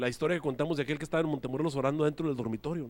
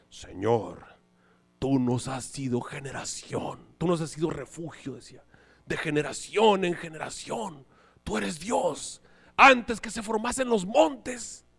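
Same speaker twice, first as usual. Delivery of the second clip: flowery prayer; slower than usual. Retold or imitated. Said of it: "frases así rebuscadas ... como una poesía".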